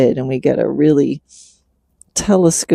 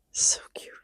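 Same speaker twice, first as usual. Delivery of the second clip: whispered; 12 dB quieter than usual. Real, not acted. Fond aside.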